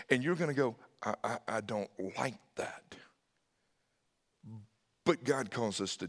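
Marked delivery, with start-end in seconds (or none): 1.0-2.9 soft whisper; hushed, private approval; whispered reaction. Acted. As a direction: breathe it out under your breath. Listener's inner objection to God.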